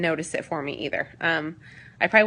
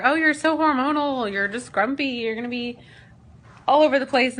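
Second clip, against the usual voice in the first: mocking others; 6 semitones higher, 4 dB louder than usual. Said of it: "you hear".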